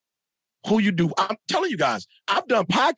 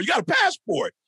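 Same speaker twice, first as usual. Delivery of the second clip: can't believe what he's hearing, higher; incredulous outburst; 12 semitones higher than usual. Retold or imitated. Father scolding son for feeling behind, incredulous and high. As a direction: pitch shooting way up in disbelief. Dad ranting at son's complaint.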